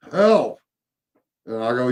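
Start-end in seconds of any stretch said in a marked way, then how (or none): 0.1-0.6 ghost's plea for help. Retold or imitated. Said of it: "And, and he goes".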